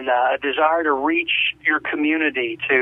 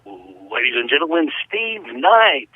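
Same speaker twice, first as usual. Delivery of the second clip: low build-up, then the name rising louder; mock ring announcer; 4 semitones lower, 3 dB louder, slower than usual. Host introducing Steve Knight to listeners, grand announcer style. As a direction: announce the guest like a big star.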